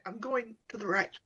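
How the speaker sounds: hushed, softly voiced aside; mock whisper. Player whispers to a party member, hushed but voiced. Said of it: "whisper to L J".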